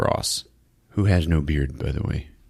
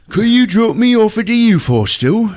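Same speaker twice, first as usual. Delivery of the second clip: much higher, louder, laughing schoolboy voice; eager boy; 14 semitones higher, 5 dB louder than usual. Retold or imitated. Scout hitchhiker asking Lady Sylvia for a lift, hammed-up boyish. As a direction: chirp like a keen boy scout. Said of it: "And he's like".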